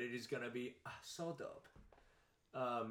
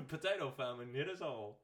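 singsong fake Irish accent; mock Irish accent. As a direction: put on a bad Irish lilt. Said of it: "straight from Ireland".

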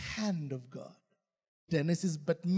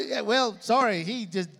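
blunt reply; 7 semitones higher, 9 dB louder than usual. Pretend. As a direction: tell the donkey the truth. Answer to the donkey.

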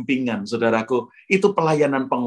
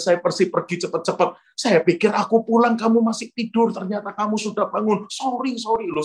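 higher-pitched pleading excuses; acted flustered apology; 4 semitones higher than usual. Wife apologising to husband after market trip, flustered.

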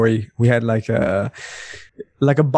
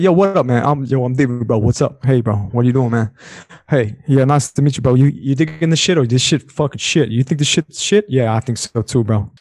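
Miami bro. Retold or imitated. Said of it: "it's more like".

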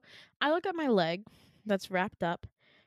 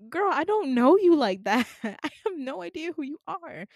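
sassy retort; 6 semitones higher, 7 dB louder than usual. Retold or imitated.

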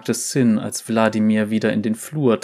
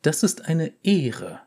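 put-on young girl voice; 6 semitones higher than usual. Girl character voice.

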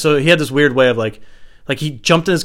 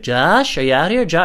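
raised, searching call; 6 semitones higher, 4 dB louder than usual. Retold or imitated. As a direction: call for a lost friend in the woods. Calling out for friend in woods.

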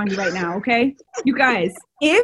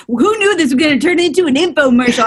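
infomercial voice; 5 dB louder, faster than usual. Shown as a demonstration. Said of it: "I'm gonna start using my infomercial voice".

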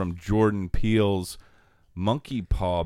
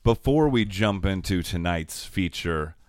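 slow, deliberate host intro; announcer read; slower than usual. Shown as a demonstration. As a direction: announce the feature like a show host. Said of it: "Let me take it again".

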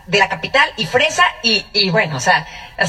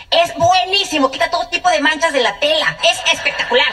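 eager sales pitch; 5 semitones higher than usual. Retold or imitated. Cousin pitching the cleaning product.

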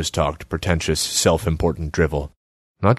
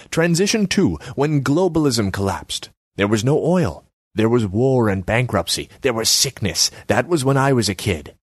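higher pitched, nagging artsy woman; Selma's voice; 5 semitones higher than usual. Acted. Selma needles Borislav about his empty kiosk, high voice.

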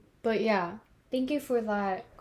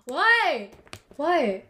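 loud; 3 semitones higher, 3 dB louder than usual. Real, not acted. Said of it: "why are you so loud?".

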